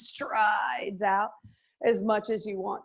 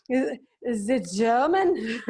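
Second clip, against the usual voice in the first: drawn-out mock German accent; bad German accent. Instructor recalling reading aloud to Zoe, bad German accent. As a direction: put on a clumsy German accent. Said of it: "probably the worst German accent ever".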